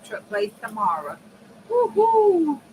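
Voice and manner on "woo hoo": high, bright woo-hoo; excited cheer. Real, not acted. Seller cheering that all the orders are sent, high excited whoop.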